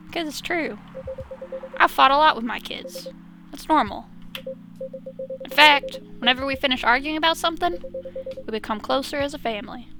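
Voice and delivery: lightly voiced Southern dad; matter-of-fact, with a hint of Southern; bad Southern accent. Cop explains fighting with his kids, lightly Southern-accented. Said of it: "a bad Southern accent".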